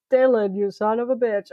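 failed impression of an action star; Arnold Schwarzenegger. Co-host trying the famous line, badly faked action-hero voice. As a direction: have a rough go at a film-star accent. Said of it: "I don't know whose voice that was".

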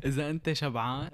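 words through a laugh; chuckling while saying it. Real, not acted. Laughs through shawarma joke.

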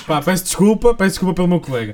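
loud. Acted. Loud mock apology.

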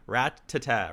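Rat-ta-ta with held double T; syllable by syllable. Shown as a demonstration. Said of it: "two T's".

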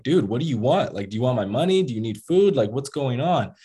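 retold exasperation, pitch swinging up; lightly acted annoyance, demanding answers; mildly mad. Robbed man demanding answers from the gunman, mildly mad. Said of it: "I started kinda getting mad".

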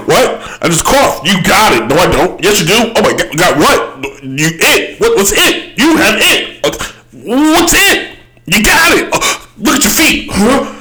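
high, squeaky back-and-forth of accuser and cougher; silly squabble voices. Acted. Acting out a coughing person being accused in a silly high voice. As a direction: pitch it way up and bicker like kids.

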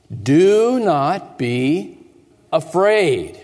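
very slow, measured angel's command; lightly voiced angel calming the shepherds; solemn angel. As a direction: lay each word down slowly like an angel. Angel speaks to terrified shepherds.

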